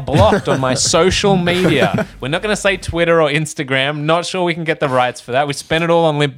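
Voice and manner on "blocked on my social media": mock huffy retort. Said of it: "they just keep saying".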